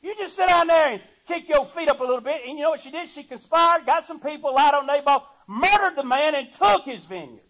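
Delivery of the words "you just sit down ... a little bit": coaxing temptress. Retold or imitated. Jezebel sweet-talking King Ahab, a coaxing temptress. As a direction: sweet-talk him like a scheming wife. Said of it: "And she said".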